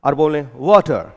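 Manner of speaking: वाटर said first Indian style, then British style; two accents. Shown as a demonstration. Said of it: "जैसे वाटर शब्द का उच्चारण".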